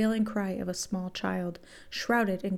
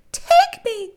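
high, loud desperate yell; shout; 11 dB louder than usual. A narrator's reading. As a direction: cry it out sharply at the top of the voice. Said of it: "Trish shouted two words".

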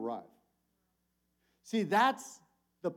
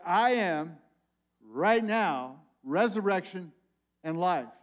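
emphatic declaration; 5 dB louder, slower than usual. Shown as a demonstration. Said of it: "I'm gonna emphasize that".

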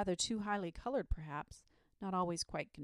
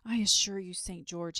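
loud earnest assurance; insist, sincerely; 8 dB louder than usual. A narrator's reading. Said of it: "he said earnestly".

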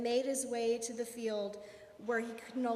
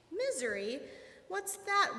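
puzzled question, jumping higher at the end; wondering; 6 semitones higher than usual. A narrator's reading. Monkey hearing of misery first time, wondering. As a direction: puzzle over a strange new word. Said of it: "wondered Monkey".

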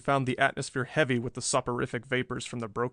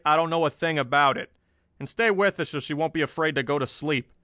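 gruff orders, pitch and volume raised; hard-boiled boss; 4 semitones higher, 4 dB louder than usual. A narrator's reading. Chief ordering an officer to help the girl, hard-boiled. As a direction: boss an officer around, brisk and forceful. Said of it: "Hard-boiled Bland glared at one of the officers".

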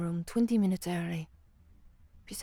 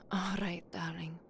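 soft whisper; 6 dB quieter than usual. Acted. Half-hearted goodnight to lover.

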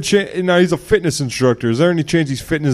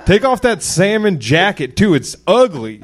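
dopey cartoon bellow; 4 semitones higher than usual. Yelling insults at guest.

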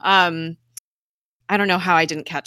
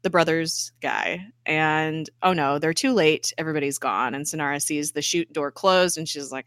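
ordinary talk, nothing marked

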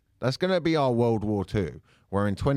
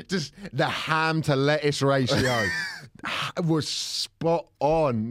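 laughing; 3 semitones higher, slower than usual. Acted. Mock nostalgic praise.

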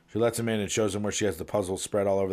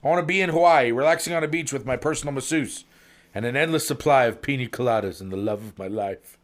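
eager wish; 4 semitones higher, 5 dB louder than usual. Acted. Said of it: "says the sales rep".

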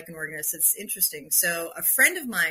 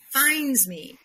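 "finds" leaned on, pitched up, then falling; stress on FINDS; 5 semitones higher than usual. Real, not acted. Telling how the piano came to her, stress on FINDS. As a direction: land firmly on "finds". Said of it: "I will say it that way".

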